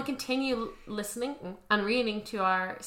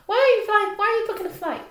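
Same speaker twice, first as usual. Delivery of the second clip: high incredulous questioning; surprised; 11 semitones higher, 4 dB louder, faster than usual. Real, not acted. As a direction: ask in shocked disbelief. Alarmed at cohost.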